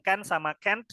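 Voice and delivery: "can" and "can't" both with the same "ken" vowel; can and can't alike. Shown as a demonstration. Teacher showing some American states' speech, "can" and "can't" nearly identical. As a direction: make "can't" sound almost identical to "can". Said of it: "hampir nggak ada bedanya".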